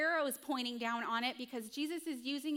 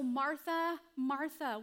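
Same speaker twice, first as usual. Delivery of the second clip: called out louder and higher; raised, emphatic repeated name; 3 semitones higher, 5 dB louder, slower than usual. Retold or imitated. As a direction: call her name with urgency. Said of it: "And so".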